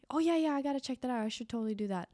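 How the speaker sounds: fast, high and breezy, a mock gushing yes; mock eager brush-off. Friend recommends a book, she mocks the hollow fast high yes. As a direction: toss off an empty promise you won't keep. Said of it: "If someone recommends a book to me".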